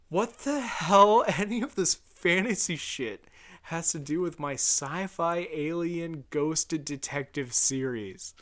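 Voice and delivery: loud, high, drawn-out disbelief; incredulous comic yell; exasperated outburst. Pretend. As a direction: rant in mock outrage, easing toward the end. Mock outrage at the show.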